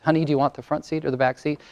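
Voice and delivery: soft, quick polite question; a hint of a gentle husband; meek husband. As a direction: ask her gently and quickly. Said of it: "Notice his was".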